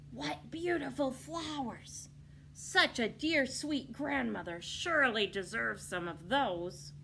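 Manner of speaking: high, slow sly flattery; a wolf faking wonder. Acted.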